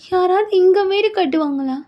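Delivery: high, drawn-out question; incredulous bride. Acted. Bride questioning a house by the graveyard, incredulous.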